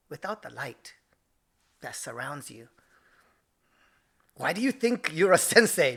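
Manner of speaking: imitated Japanese accent, long pauses; sage, measured lecture in dad's Japanese accent. Dad teaching sensei son humility, Japanese accent. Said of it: "I have to do it in his accent".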